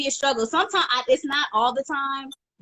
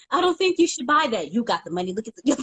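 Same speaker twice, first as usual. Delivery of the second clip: angel and devil voice; 3 semitones higher, faster than usual. Retold or imitated. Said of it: "that left and right angel".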